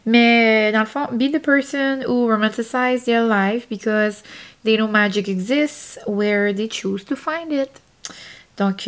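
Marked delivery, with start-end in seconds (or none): 1.1-7.7 English quote read with her own Acadian accent. Real, not acted. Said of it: "excusez mon accent acadien". (citation anglaise avec l'accent acadien)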